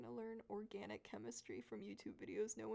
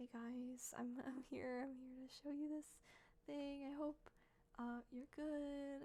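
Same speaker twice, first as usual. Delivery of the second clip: light, higher-pitched voice; 3 semitones higher than usual. Speaker imitating how they sounded on an old recording, higher-pitched quiet voice. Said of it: "It was more higher pitched like".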